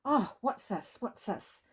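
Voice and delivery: hushed unvoiced whisper; imitating an old lady's whisper. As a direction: breathe it out like an old lady. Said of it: "she goes".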